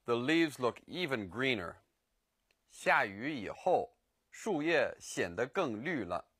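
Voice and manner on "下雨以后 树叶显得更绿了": slow. Shown as a demonstration. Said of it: "After it rains".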